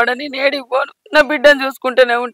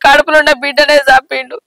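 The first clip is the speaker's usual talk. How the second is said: sobbing, plaintive account with curses; grieving mother's wail; tearful lament. Acted. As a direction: tell the wrong through tears. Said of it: "ఏడవకు అత్తమ్మ".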